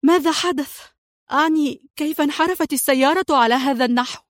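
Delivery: high, urgent demand for answers; alarmed cry. A narrator's reading. Mona to Adham after the crash, a high alarmed cry. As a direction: call out, confused and shaken. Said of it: "صاحت منى".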